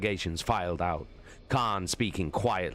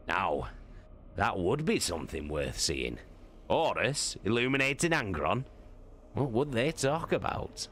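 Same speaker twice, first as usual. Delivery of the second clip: amused Torgadon; 4 semitones higher than usual. Acted. Torgadon jokes with Loken about Horus and Angron, wry. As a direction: savour the joke.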